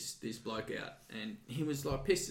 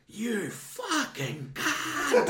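very high, very slow shriek broken by laughter; laughing mock yell; 14 semitones higher, 4 dB louder, much slower than usual. Woman realising it was him, shrieks through laughter. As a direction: screech the insult while cracking up. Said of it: "she just goes".

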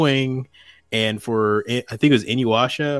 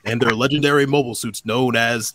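put-on old sci-fi announcer. Quoting Gundam Wing promo.

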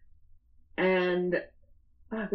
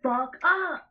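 higher, half-asleep angry snap; groggy snap; 6 semitones higher, 3 dB louder, slower than usual. Retold or imitated. Snapping at screaming Lindsay while half asleep, groggy and irritated. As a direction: snap at her through the haze. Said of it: "I was like".

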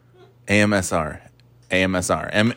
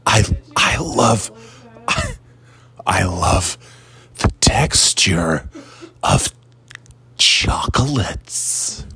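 chewing while talking; slower than usual. Real, not acted. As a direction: mouth full of chocolate, slow. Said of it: "I'm chewing on chocolates".

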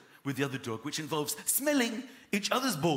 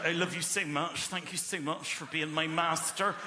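put-on Norfolk accent; 2 semitones lower, 3 dB quieter than usual. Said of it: "I'm gonna give him a Norfolk accent".

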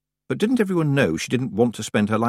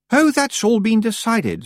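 high, drawn-out, airy witch voice; smooth Miss Tick, brisk assurance; 13 semitones higher, 4 dB louder, slower than usual. A narrator's reading. Miss Tick answering about the cottage, smooth. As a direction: dismiss the question smoothly.

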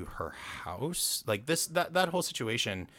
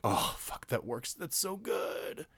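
awed reaction; 6 semitones higher, 3 dB quieter, slower than usual. Retold or imitated. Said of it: "And I'm like".

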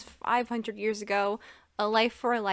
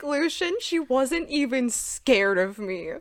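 slow, pouty comic complaint; mock tantrum; 4 semitones higher, 3 dB louder, slower than usual. Lord whining to his friend Lucian, mock tantrum. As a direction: complain like a sulky boy. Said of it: "a literal little tam tam tantrum".

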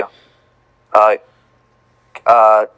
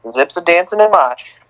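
slightly higher, r-less Boston accent on MARCH; 4 semitones higher than usual. Real, not acted. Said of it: "Why'd you say that with a Boston accent?".

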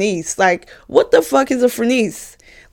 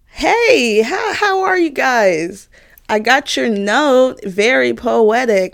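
fake sweet; 3 semitones higher, slower than usual. Fake-sweet greeting to rival.

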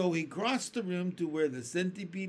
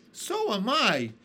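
higher, louder eager cry; ladybug cries out; 8 semitones higher, 8 dB louder than usual. A narrator's reading. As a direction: pipe up loud in agreement. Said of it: "the ladybug cried".

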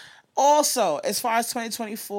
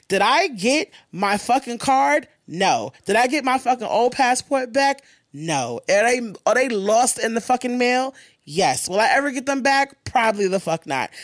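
exasperated rant; 5 semitones higher than usual. Real, not acted. Ranting about lost passport.

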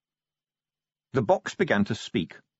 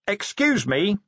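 high-pitched, raised "excuse me"; loud interruption; 10 semitones higher, slower than usual. A narrator's reading. Vimes silences a babble of voices, loudly. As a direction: cut through the chatter with a lifted voice. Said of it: "said Vimes loudly".

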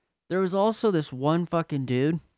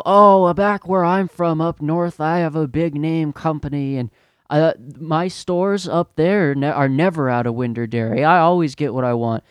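raised, indignant imitation of a ranting customer; mock tirade; 3 semitones higher, 4 dB louder than usual. Rich customer boasting of his stores up north, mock ranting. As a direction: start high and loud, then ease into self-important complaint. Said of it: "yelling, ta-, just fucking tirade".

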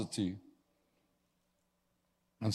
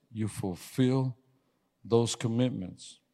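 slow voice of God; slower than usual. Retold or imitated. Voice of the Lord.

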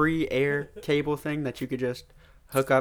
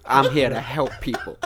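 imitating TV psychic; 5 dB louder than usual. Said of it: "He goes".

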